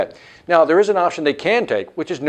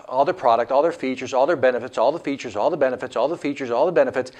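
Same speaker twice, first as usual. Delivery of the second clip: droning sales list; 4 semitones lower, faster than usual. Retold or imitated. Seller keeps telling the customer everything, mock droning list. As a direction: imitate a seller reeling off the same list. Imitates a seller listing endlessly.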